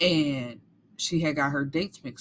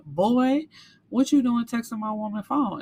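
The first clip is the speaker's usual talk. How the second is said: higher, mock-challenging call-out; confronting; 5 semitones higher than usual. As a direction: square up to him in a retold quote. Boyfriend confronts August in alley.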